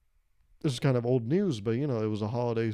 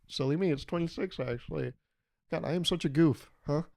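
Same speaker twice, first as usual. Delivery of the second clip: silly self-mockery; 3 semitones higher than usual. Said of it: "I'd always go".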